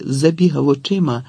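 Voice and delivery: ordinary delivery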